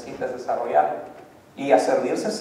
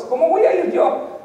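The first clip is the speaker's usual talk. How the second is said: much higher, pleading question; anxious Moses; 10 semitones higher than usual. Acted. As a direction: squeak out the doubt. Moses repeats question, pitch up.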